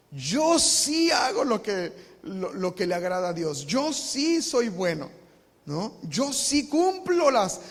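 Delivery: a proud Pharisee boasting, loud and slow; smug Pharisee. Acted. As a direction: brag slowly to be heard. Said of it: "Cuál era el problema de los fariseos".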